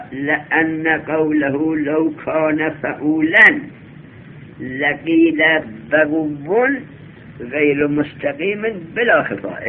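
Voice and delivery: slow, deliberate reading of a classical text; measured textbook recitation; reciting the Arabic text. Shown as a demonstration. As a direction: lay out each Arabic word slowly for the class. Reads out the Arabic source text.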